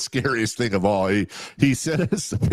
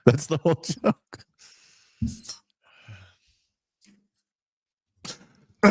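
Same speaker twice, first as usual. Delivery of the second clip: drawn-out deadpan; 3 dB quieter, much slower than usual. Real, not acted. Deadpan drawn-out punchline tag.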